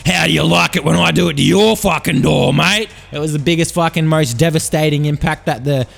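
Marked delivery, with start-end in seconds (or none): 0.1-2.9 mock angry Brody. Brody smashing in.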